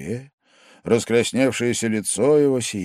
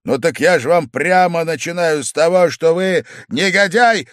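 loud, high, furious shout; shouting, voice cracking; 8 semitones higher, 8 dB louder than usual. A narrator's reading. Furious host shouts insults at his guest. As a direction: yell until the voice breaks. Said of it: "закричал Вельчининов сорвавшимся голосом".

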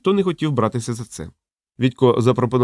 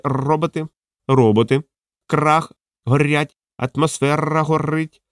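high, slow squawking parrot; raised slow parrot squawk; 4 semitones higher, slower than usual. Acted. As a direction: squawk each word like a parrot. Parrot squawks random words.

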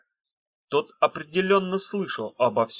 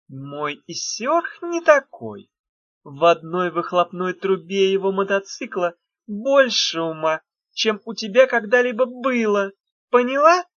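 furious witch; 7 semitones higher, 5 dB louder than usual. A narrator's reading. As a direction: threaten her, building fury.

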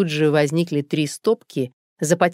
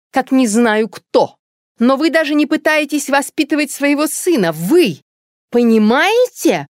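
higher, louder angry tirade; angry near-shout; 9 semitones higher, 5 dB louder than usual. Acted. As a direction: lash out at the neighbour, rising to a shout. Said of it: "почти выкрикнула". (злая, почти крик)

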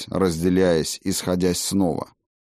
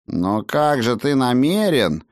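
higher, slow, astonished query; surprised question; 6 semitones higher than usual. A narrator's reading. Halfling asking the healer what he intends, surprised. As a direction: stretch it out in puzzled surprise. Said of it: "удивлённо начал Роб".

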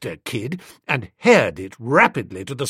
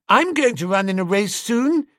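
put-on little girl voice; 7 semitones higher than usual. A narrator's reading.

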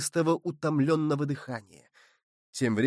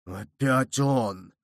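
panting; 3 semitones lower, much slower than usual. Acted. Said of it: "пыхтя, как кузнечный мех".

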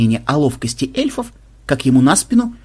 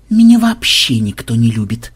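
mild snap back; 3 semitones lower, 4 dB louder than usual. Acted. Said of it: "огрызнулся Ксенобайт".

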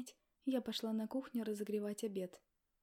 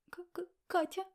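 stammering name; 8 semitones higher, 5 dB louder, slower than usual. Acted. Stammering sobbing girl.

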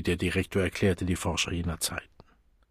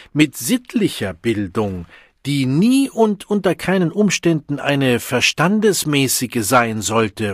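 emphatic lecture; 6 semitones higher, 8 dB louder than usual. Acted. Director emphatically lecturing students.

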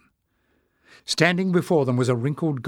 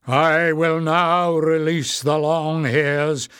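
slow, louder solemn elder goblin; 3 semitones higher, 4 dB louder, slower than usual. Acted. Warren addressing the goblins, slow and solemn. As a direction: announce it with slow authority. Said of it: "he said".

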